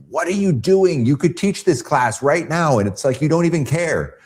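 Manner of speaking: hammed-up indignant teacher, pitch jumping up; upset teacher. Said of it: "my teacher got upset with me".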